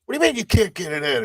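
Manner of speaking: high, rapid disbelieving question; incredulous character voice. Acted. Player challenges crewmate who can't load it, high incredulous voice. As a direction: throw it back high and fast.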